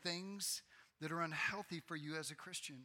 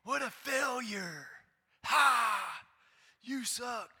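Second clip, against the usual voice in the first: higher, louder scornful jeer with a mocking laugh; mock sneering father; 9 semitones higher, 11 dB louder, much slower than usual. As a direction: sneer at a child's failure, hammed-up. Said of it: "he's not going".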